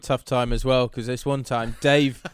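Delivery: hint of Scouse in a sob story; hard-luck tale, lightly Scouse; mock Liverpudlian. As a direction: put on a slight Liverpudlian accent. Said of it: "slightly scouse that one a little bit".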